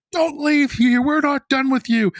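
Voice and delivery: high, loud mock shout; stern council. Popes ordering the exorcist to stay, loud mock shout.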